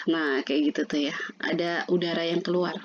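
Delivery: airy unvoiced whisper like after spicy food; breathy whisper. Shown as a demonstration. Teacher shows the breathy h like someone eating chili, whispered. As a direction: let the air rush out as if your mouth burns. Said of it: "seperti orang yang kepedesan".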